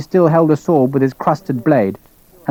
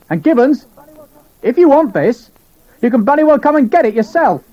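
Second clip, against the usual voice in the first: scornful anger; 13 semitones higher than usual. Acted. Sharp's angry parting shot.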